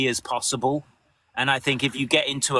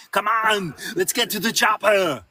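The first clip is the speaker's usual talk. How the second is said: action-hero 'Come on, let's get to the chopper' copied from the director; parroted line read; 5 semitones higher than usual. Shown as a demonstration. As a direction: echo the director's read exactly, a bit higher. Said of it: "And now you just go".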